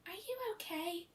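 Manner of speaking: tender hushed pony voice; concerned question. A narrator's reading. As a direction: ask quietly after the hard landing. Fluttershy checks on fallen Rainbow.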